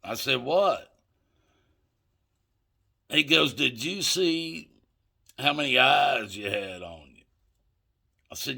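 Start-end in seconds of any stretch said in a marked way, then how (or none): 0.4-0.9 high, loud puzzled question; retold bafflement. Buyer asks what the dealer means, baffled. 3.5-7.2 retold amazement. Dealer amazed at his nerve.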